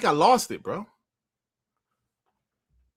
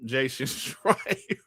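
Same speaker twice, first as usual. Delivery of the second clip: slow, drawn-out name with a laugh in it; lightly voiced Jason Schreier, dragged slowly; a hint of Jason Schreier, stretched out; Jason Schreier impression; 2 semitones lower, 5 dB quieter, much slower than usual. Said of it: "a new impression onto the show now".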